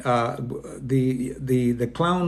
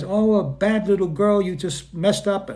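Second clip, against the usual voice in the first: scolding parent; 6 semitones higher than usual. Retold or imitated. Parent scolding a child for a mistake, mock high scold. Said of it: "the way that you're treated when you do something wrong".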